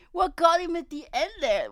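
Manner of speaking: incredulous laughing what; high, loud laughing disbelief; giggling confusion. Real, not acted.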